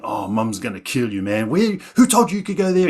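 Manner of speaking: mock scolding, climbing at the end; riling up. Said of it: "he was revving it all up".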